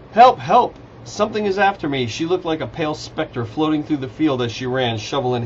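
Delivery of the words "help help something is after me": high, loud cries for help; screaming for help. A narrator's reading. Sophia running to camp from a creature, screaming. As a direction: raise the alarm in a pitched-up yell. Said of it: "screaming loudly".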